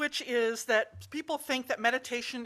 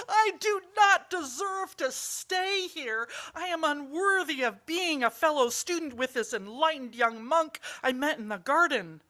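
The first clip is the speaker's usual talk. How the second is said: gasping in awe; 4 semitones higher, 4 dB louder than usual. Acted. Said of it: "he gasped".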